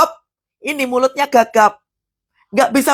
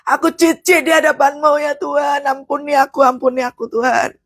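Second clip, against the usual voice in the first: lightly acted sobbing repentance; imitated tearful confession; 3 semitones higher than usual. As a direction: plead as if crying to God. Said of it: "Dia nangis di hadapan Tuhan".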